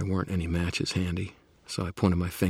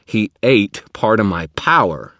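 grim; 5 semitones higher, 13 dB louder, slower than usual. Acted. Grim realization.

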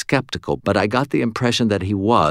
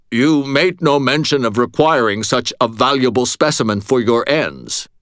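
a polite, measured retainer; courteous servant voice; 6 semitones higher, 3 dB louder than usual. Acted.

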